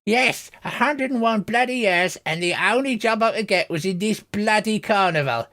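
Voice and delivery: put-on cackly old carnival worker complaining bitterly; cackly old lady. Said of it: "a cackly old lady voice".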